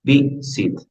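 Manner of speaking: "Be, sit" split, with weight on BE; stress on first syllable. Shown as a demonstration. Teacher locating the stress for students, first beat of "Be, sit". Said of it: "En la primera".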